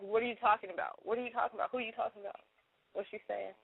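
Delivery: fading mock question. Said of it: "And I always ask".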